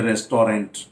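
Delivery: रेस्टोरेंट read as spelt, "res-to-rent"; common mispronunciation. Shown as a demonstration. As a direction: say रेस्टोरेंट with every written vowel sounded. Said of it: "गलत pronounce करते हुए सुना है".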